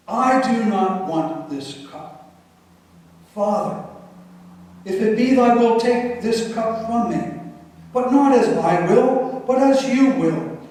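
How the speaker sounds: pleading rising to a cry; Jesus pleading in Gethsemane, building to a cry; anguished prayer. Acted.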